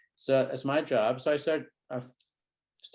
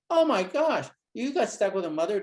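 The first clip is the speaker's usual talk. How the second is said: much higher, louder exclaim; exaggerated shock; 7 semitones higher, 5 dB louder than usual. Shown as a demonstration. Therapist reacting to a child's answer, exaggerated shock. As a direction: overplay the shock.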